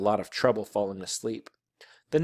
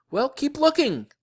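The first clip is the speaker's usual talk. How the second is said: high, loud, exasperated order; yelled; 5 dB louder than usual. A narrator's reading. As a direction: yell it at her, pitch shooting up. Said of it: "I yelled".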